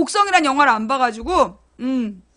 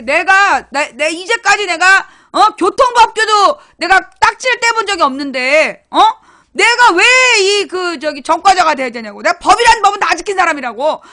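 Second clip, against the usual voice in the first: louder, mock-indignant complaint to God; retold heated protest; 4 semitones higher, 6 dB louder than usual. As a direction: argue your innocence hotly, retelling it. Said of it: "막 들이댔어". (하나님께 억울하다며 언성 높여 따지기)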